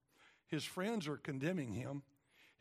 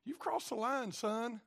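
higher, louder fatherly rebuke; stern God; 7 semitones higher, 5 dB louder than usual. Acted. God scolding Job as son, higher and louder. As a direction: scold him like a wayward son. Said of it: "God's like".

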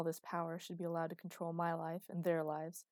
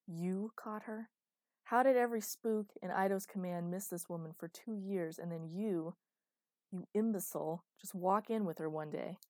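contemptuous; 3 dB louder than usual. Acted. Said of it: "looked at him with contempt".

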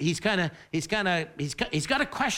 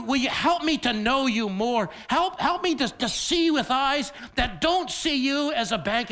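fervent prayer; 5 semitones higher, 3 dB louder than usual. Retold or imitated. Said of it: "Lord, sh".

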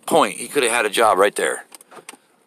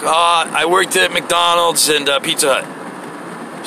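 slow dopey reply; 5 semitones higher, much slower than usual. Retold or imitated. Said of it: "He's like".

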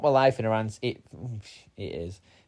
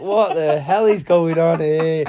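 exasperated self-talk; 4 semitones higher, 8 dB louder, slower than usual. Retold or imitated. Panicked self-talk hunting for key.

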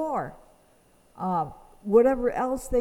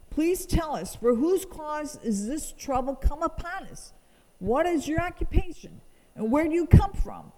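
higher, urgent, panicky questions; scared crew demanding who he is; frightened sailors; 5 semitones higher than usual. Acted. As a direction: press him for answers as the storm rages. Panicked sailors question Jonah in storm.

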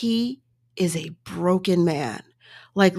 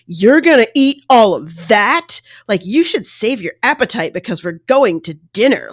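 mimicking the husband; 3 semitones higher, 7 dB louder than usual. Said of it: "he was like".

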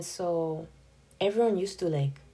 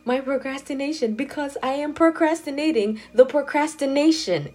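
laughing; 7 semitones higher, 7 dB louder than usual. Real, not acted. Laughing at her own joke.

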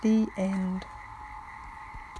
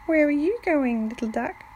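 purring; 6 semitones higher than usual. A narrator's reading. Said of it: "she purred".

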